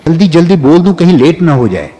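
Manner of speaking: rushed, rising delivery; hurried speech demo. Shown as a demonstration. Teacher mimics someone rushing to speak in hurried tone. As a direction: gabble it as if late. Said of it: "जल्दी जल्दी बोलूं।".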